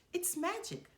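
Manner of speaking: high, sly crow voice; mysterious crow voice. A narrator's reading. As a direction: sell the trick playfully. Crows tell Dumbo.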